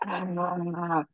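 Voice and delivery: high, soft mock scream; held-back imitation of a screaming kid; imitated child's scream. Dad mimicking his daughter behind the locked door, mock screaming.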